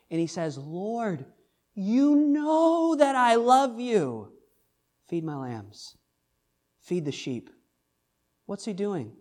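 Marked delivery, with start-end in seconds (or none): 0.6-7.5 exasperated, high and slow; a fed-up disciple pleading; frustrated Peter. Retold or imitated. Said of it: "he's a little bit frustrated".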